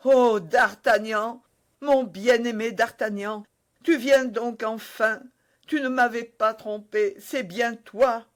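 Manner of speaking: breathless joy of a reunited lover; overjoyed reunion. Acted. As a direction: pour out relief at seeing him again. Constance greets her beloved.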